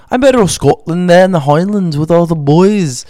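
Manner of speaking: slow, mock Scottish brogue; slow put-on Scottish voice; Scottish accent. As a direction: play a hammed-up Highlander. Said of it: "you don't even sound the same anymore".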